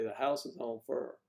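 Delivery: Southern drawn "fur", no long i; "fur" rhyming with "her", meaning fire; Deep South "fur" for fire. Shown as a demonstration. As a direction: say "fur" for fire, one r-coloured syllable. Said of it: "you might say".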